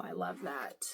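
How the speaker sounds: whisper. Real, not acted. Admiring a lighthouse card from Jean, a low whisper. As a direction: breathe it out in awe, voiceless.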